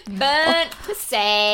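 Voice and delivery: slow, drawn out through laughter; words stretched by laughter; laughing. Real, not acted. Laughing at joke title.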